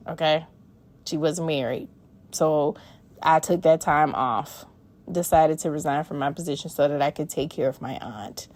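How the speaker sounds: sample explanation. Shown as a demonstration. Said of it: "This job don't exist. You are on sabbatical".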